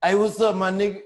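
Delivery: lightly voiced soft guy posing as tough. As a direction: play a soft-spoken dude acting hard. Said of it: "it sound like the softest nigga I ever talked to".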